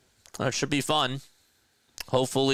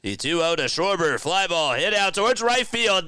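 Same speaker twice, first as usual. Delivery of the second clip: home run call; 11 semitones higher, 5 dB louder than usual. Real, not acted. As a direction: ride the fly ball up to the big call.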